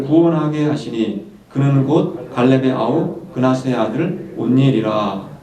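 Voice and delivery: slow, measured congregational Bible reading; scripture reading. Acted. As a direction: lead the congregation through the verse, unhurried.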